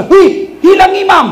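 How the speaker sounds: sudden high shout of alarm; startled yell of surprise; startled cry. Retold or imitated. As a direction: blurt it out, surprised.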